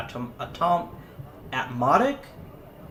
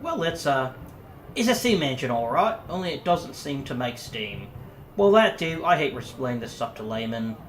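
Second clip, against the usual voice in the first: put-on Yorkshire accent. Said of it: "I'm not doing the voice anymore".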